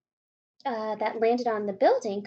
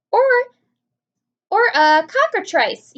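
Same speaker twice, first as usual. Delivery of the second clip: loud, slow alarmed yell; 10 semitones higher, 13 dB louder than usual. A narrator's reading. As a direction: yell out the name. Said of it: "yelled the chief of police".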